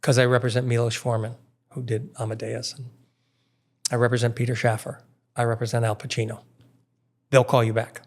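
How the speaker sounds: put-on Austrian accent. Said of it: "in his, in Aus-, Austrian a-, accent?".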